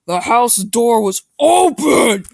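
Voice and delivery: high, loud, slow alarmed read; dramatic. Acted. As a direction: gasp out the discovery.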